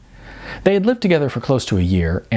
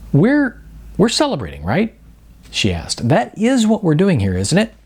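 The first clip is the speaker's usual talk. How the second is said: put-on higher, questioning girlfriend voice; Sarah, puzzled and pressing; 7 semitones higher than usual. Girlfriend confused at dinner, higher puzzled questioning. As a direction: ask it raised and unsure, fishing for reassurance.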